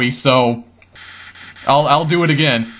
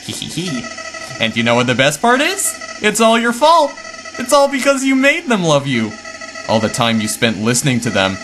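a taunting little villain who turns mocking and menacing; gloating villain flower. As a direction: sneer at them as the flower who wins every game.

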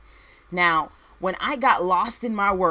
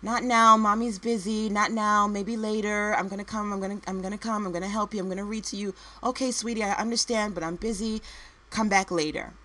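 re-enacted brush-off, slightly raised pitch, opening sharply then hurried; agitated busy mom; 3 semitones higher, faster than usual. Busy working mom putting off her son, agitated. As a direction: act out a harried mother putting off her child. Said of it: "agitated sound in my voice".

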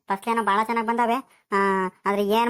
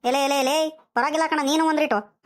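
mild acted scolding, slightly higher pitch; 4 semitones higher than usual. Grandfather rebuking his grandson for answering back, scolding. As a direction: tell the boy off, mock-indignant. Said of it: "ಹಿಂಗ್ ಬೈತಿದ್ಯಾ".

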